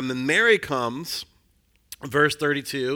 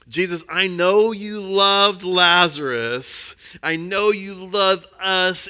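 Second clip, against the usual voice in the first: slow, higher pleading voice, lightly voiced; pleading Martha; 4 semitones higher, 4 dB louder, slower than usual. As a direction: plead gently with Jesus, a touch hurt. Martha's plea to Jesus, acted.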